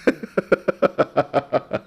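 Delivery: squeaky voice shooting way up high; really high voice. Shown as a demonstration. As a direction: demo how high your voice can go. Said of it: "I could make my voice really high".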